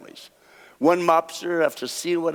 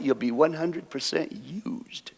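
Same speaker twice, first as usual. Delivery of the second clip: hushed warning; 6 dB quieter, slower than usual. Retold or imitated. Mobster warning the card player quietly. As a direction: warn him softly, almost under the breath.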